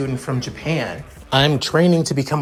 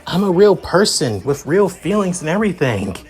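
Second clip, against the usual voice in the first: higher-pitched, mildly indignant disbelief; baffled protest; 6 semitones higher than usual. Acted. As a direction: protest it, a touch taken aback. Character protests being called manga fiction.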